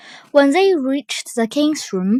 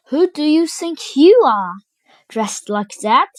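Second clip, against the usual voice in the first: jeering; 4 semitones higher, 3 dB louder than usual. Acted. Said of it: "jeered the crowd".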